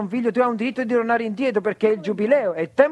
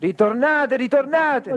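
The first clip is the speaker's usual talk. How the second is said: urgent preaching call; 4 semitones higher, much slower than usual. Real, not acted. Interpreter pleading with the congregation to come back, rising urgency.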